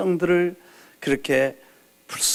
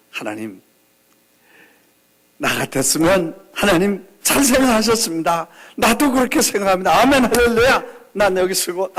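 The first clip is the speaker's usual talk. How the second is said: cheeky mock prayer; 3 semitones higher than usual. Pastor voices his own mock prayer.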